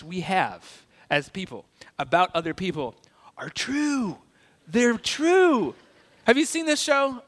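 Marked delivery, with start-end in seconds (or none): 3.4-5.7 whispered punchline. Pretend. Punchline confession about stereotypes.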